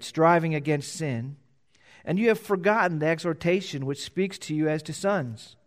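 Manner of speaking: measured, solemn Bible reading; formal pulpit reading of Scripture. Acted. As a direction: read the passage like it matters. Reading scripture before the sermon.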